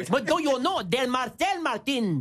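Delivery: very slow mock-Mexican English; Mexican accent. Comic repeats his joke for colleagues, Mexican accent. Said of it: "Au Mexique, on dit".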